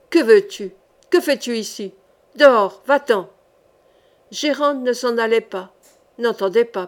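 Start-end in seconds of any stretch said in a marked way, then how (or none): 0.1-3.3 louder, wild shouting at an intruder; savage yell. Acted. Sorcerer roars at Gérande to get out. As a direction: bark her out of the room. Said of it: "d'une voix sauvage, hurla".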